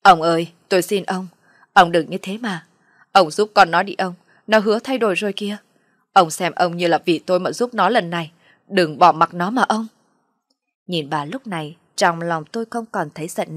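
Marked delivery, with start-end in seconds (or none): 0.0-9.9 louder, imploring mother's plea; acted, lightly tearful begging; tearful pleading. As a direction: implore him on the son's behalf. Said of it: "vừa khóc vừa nói".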